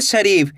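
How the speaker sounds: "शरीफ" with a lengthened री; stretched long ई. Shown as a demonstration. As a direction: draw out the ई in "शरीफ". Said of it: "री को खींच के पढ़ना है". ("शरीफ" की री को लंबा करके)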